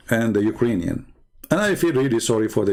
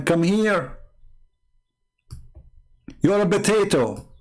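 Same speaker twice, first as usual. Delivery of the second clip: lightly voiced taunt, pitched up; taunting Putin; 4 semitones higher than usual. A hint of Putin taunting Biden. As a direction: sneer at him like a bully calling out a rival. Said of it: "Putin is saying to Biden".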